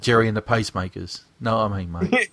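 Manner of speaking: put-on Liverpool accent. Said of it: "talks like that".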